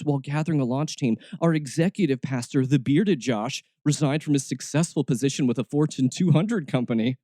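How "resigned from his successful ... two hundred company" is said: ordinary delivery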